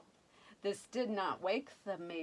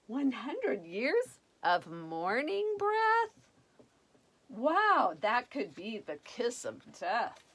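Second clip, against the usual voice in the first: dismayed prince; 3 semitones higher, 4 dB louder than usual. Acted. Prince dreading the kiss.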